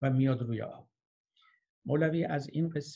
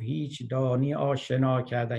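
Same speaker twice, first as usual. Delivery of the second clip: slightly raised voice, reciting a shouted question; mild declaimed call; 5 dB louder than usual. Acted. Boatman calling to the grammarian in the storm, mildly raised recitation. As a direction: project the verse as a restrained call.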